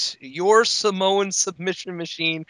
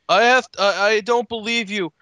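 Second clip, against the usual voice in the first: hammed-up conspiracy rant, louder; mock paranoid rant; 5 semitones higher, 3 dB louder than usual. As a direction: rant like a paranoid pundit, raised voice.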